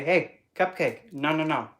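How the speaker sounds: sassy hands-off warning; firm sass. Shown as a demonstration. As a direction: set the boundary with sass. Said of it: "stand up for yourself and say".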